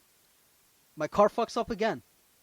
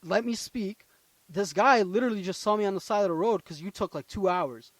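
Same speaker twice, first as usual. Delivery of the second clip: retold raised voice; 2 semitones higher than usual. Storyteller telling the tow driver to let him speak, raised voice. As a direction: push back forcefully, then ease toward normal. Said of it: "like, I'd raise my voice".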